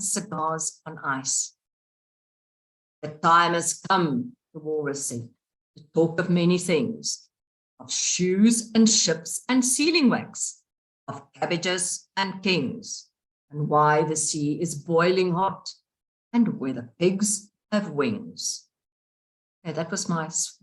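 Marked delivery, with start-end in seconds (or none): 3.0-4.3 slow, lightly voiced walrus; a hint of a wise old walrus, slowly. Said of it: "walrus voice". 5.8-18.7 slow, lightly voiced walrus; a hint of a wise old walrus, slowly. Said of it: "walrus voice".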